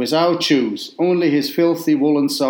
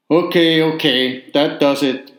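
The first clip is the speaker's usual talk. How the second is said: indignant yell; 2 semitones higher than usual. Retold or imitated. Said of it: "Peter yelled indignant".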